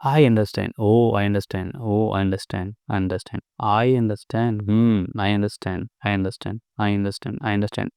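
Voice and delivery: vary the tone on each I understand; modulated voice. Shown as a demonstration. Showing viewers how to modulate the mantra, varied tones. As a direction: play with the voice, oh I understand. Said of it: "modulate करो फिर अपने वो, अपने voice को".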